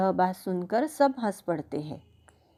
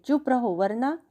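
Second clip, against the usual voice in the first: shouting; 5 semitones higher than usual. Acted. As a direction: yell to silence the children. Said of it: "चिल्लाकर कहते हैं". (चिल्लाकर धमकाते हुए)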